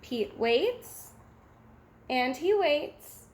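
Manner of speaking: ordinary delivery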